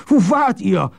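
high-pitched distraught wail; plaintive high howl. A narrator's reading. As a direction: wail it, nerves in shreds. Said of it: "heulte Goddard".

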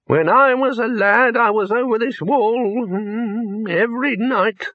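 put-on high, cracked old man's voice, aggrieved; an ancient wizard bristling at being called too old; resentful old Poons, pitched high. A narrator's reading. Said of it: "said Poons resentfully".

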